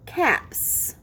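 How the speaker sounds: "caps" with a lingering hissed S; clear final S. Shown as a demonstration. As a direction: stretch the S ending "caps". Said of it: "I hear S".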